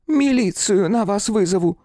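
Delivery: высокий медленный старушечий окрик; укоризненно крикнуть с балкона по-бабушкиному; старушка кричит из окна. A narrator's reading. Бабулька грозит из окна. (бабулька кричит хулиганам с третьего этажа, высоко и протяжно)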